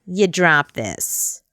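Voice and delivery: slow, drawn-out snotty clerk; snotty sales associate. Retold or imitated. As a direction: hand it over with mild disdain. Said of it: "this really snotty".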